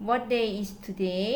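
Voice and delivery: slow model sentence. Shown as a demonstration. Teacher to students giving an example, very slow. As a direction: read it out slowly for learners to copy. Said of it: "ตัวอย่าง".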